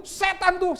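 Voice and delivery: high, loud accusation; answering God by blaming Satan, high. Acted. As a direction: point at the devil, loud.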